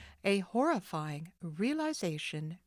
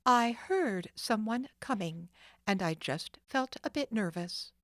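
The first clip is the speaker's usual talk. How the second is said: cool explanation; 3 semitones higher than usual. Acted. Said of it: "she explained coolly".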